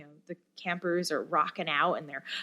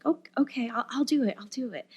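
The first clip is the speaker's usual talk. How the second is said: higher voice, lightly imitating a shy camper; hesitant girl; 6 semitones higher, faster than usual. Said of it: "she was like".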